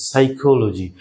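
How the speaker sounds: সাইকোলজি begun on s, no p sound; teacher model of সাইকোলজি; silent p. Shown as a demonstration. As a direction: say সাইকোলজি as "saikoloji". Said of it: "এখানে কিন্তু পি silent".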